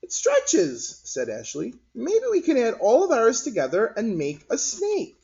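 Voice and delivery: put-on very high, eager kid; child voice. Ashley playing with gloop, high eager child voice. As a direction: pitch it up like a delighted girl.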